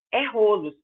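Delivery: rolos keeping the O closed. Shown as a demonstration. Teacher corrects the wrong open plural of rolo. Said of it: "todo o O vira aberto".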